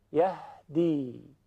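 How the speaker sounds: یه دی drawn out, very slow, letting the air through; breathy h demo. Shown as a demonstration. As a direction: breathe out the h sound slowly. (نمایش صدای ه با نفس)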